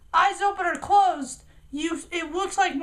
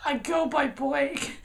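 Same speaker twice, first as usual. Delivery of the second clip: put-on slow breathless whisper of the kid's line; deadpan whispered insistence; whispered "I go by Blake"; 4 semitones lower, 3 dB quieter, slower than usual. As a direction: hush it out deadpan. Kid whispers his line.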